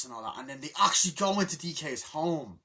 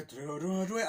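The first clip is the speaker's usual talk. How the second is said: imitated game sound; 6 semitones higher, slower than usual. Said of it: "You hear the".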